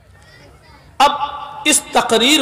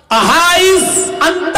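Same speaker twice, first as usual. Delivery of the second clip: high, drawn-out retold shout; acted hail, stretched and raised in pitch; calling out; 7 semitones higher, much slower than usual. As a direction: call after someone who is walking away. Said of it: "پھر کہا، آواز دی".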